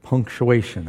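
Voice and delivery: slow, careful tongue twister; slow down to get through "poorly placed punctuation"; each word spaced out carefully; said slowly. Shown as a demonstration. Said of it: "I had to say that slowly".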